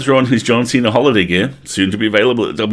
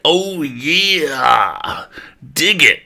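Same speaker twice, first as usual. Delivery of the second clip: macho wrestler ghost; 5 semitones higher, slower than usual. Acted. Macho Man style ghost.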